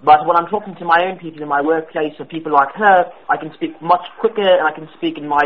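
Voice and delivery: a prank caller faking British; put-on British accent. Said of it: "sounded like someone putting on an accent".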